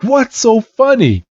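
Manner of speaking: high-pitched exasperated question; indignant, pitch jumping up; frustrated. Retold or imitated. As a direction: demand it in acted frustration. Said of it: "Red's now getting so frustrated".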